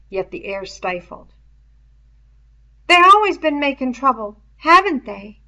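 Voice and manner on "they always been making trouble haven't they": anxious. A narrator's reading. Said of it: "sounded anxious".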